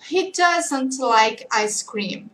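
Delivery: "he doesn't like ice cream" drawn out word by word; very slow negative answer. Shown as a demonstration. Teacher modelling the negative answer very slowly.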